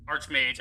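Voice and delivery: "Archmage" with ch as in church; soft ch. Shown as a demonstration. Streamer weighing pronunciations, "Archmage" with soft ch. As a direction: say "Archmage" as ARCH-mage, soft ch. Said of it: "as a soft ch".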